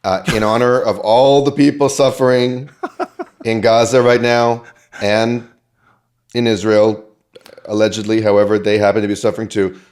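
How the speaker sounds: hammed-up plea for a moment of silence; mock announcer.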